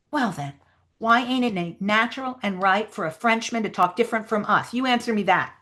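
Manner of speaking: lightly voiced challenging character; Huck Finn. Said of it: "read the Huck Finn lines".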